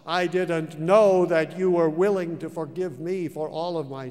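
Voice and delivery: plead, voice near breaking; tearful prayer. Retold or imitated. Man on his knees crying out to God, tearful. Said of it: "I cried out".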